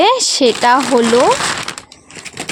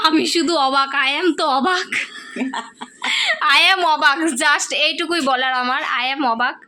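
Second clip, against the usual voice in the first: mock amazement; 4 dB quieter than usual. Real, not acted. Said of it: "কিছু বলার নেই।".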